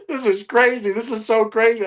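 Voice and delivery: high-pitched, giggly re-enactment; retold laughing. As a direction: replay helpless amusement at the craziness. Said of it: "I was just laughing".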